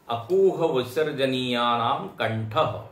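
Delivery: measured chanting of the Sanskrit rule; slow sutra recitation. Shown as a demonstration. Teacher slowly reciting a Sanskrit sutra to students. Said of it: "ये सूत्र आते हैं।".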